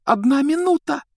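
high, loud urgent warning; urgent shout. Acted. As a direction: cry out the last minute. (громкий тревожный окрик)

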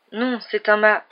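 loud, sharply cut off; cut-off cry. A narrator's reading. Gagged doctor to the caller, cut-off shout. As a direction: shout before a hand gags you.

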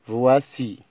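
voici said clearly, vwa-SEE, for the class; teacher's model word. Shown as a demonstration. Teacher reads the new word voici to pupils, clear model. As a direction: model voici slowly for learners. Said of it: "الكلمة رقم واحد".

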